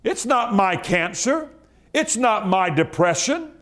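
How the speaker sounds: rising, fervent declaration; got excited. Real, not acted. Pastor disowning sickness before the church, rising excitement. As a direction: build the fire line by line. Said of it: "I got excited just then".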